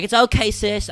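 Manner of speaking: mock influencer spat; put-on influencer talk; arguing LA influencer. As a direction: imitate an LA influencer placating a rival. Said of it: "L A influencers arguing with each other".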